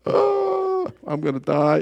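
high, hammed-up groan of boredom; mock-dramatic wail over a dull book; mock despair. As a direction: play the bored reader giving up.

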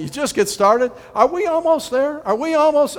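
put-on high, loud impatient child's whine; whiny kids. Kids nagging their parent on a long car trip, high whine. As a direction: whine like a bored child in the back seat. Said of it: "your kids are always saying".

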